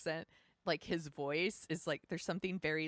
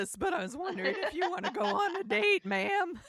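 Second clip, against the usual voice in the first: hammed-up deep voice, loud and vulnerable; Lev Schreiber; 14 semitones higher, 8 dB louder than usual. Imitating the actor asking her out by voicemail, deep voice. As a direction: play the bashful hunk, big put-on voice. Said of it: "that deep voice and then that just vulnerability".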